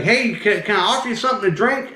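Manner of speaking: quick, high southern impression; southern accent. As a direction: imitate a southern man offering hospitality. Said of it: "he's talking with his southern accent".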